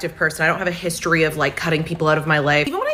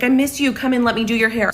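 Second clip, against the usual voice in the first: higher, sugary friendly imitation; sweet mock-friendly; 4 semitones higher than usual. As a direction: imitate her sweet-talking invite. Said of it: "she's like".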